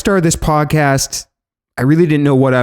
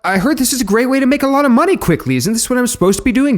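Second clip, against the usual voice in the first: naive; 9 semitones higher, faster than usual. Acted. Naive reply in argument.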